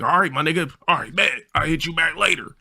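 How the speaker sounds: high, breezy homie impression; friend's voice. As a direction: wrap up the call in his high voice. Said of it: "Yeah, that's how he talked".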